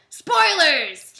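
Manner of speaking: high, loud call-out; spoiler warning. Real, not acted.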